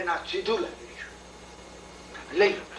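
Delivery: softly, almost unvoiced, slow; quiet hushed offer. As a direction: hand over the offering in a near whisper. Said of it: "તો કે".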